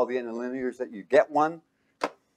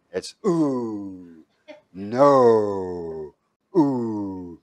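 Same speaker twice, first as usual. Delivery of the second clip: demo ooh; 3 semitones lower, much slower than usual. Shown as a demonstration. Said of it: "everybody go, ooh".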